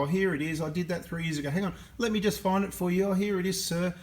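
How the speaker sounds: high, eager mock-helpful voice, a touch sarcastic; mock servile helper. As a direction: mimic a fawning clerk fetching files. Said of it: "I can't just sit there and go".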